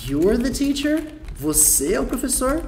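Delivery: disbelieving question. Shown as a demonstration. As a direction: ask as if you can't believe it. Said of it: "porque não acreditou". (pergunta incrédula, mais aguda, subindo em teacher)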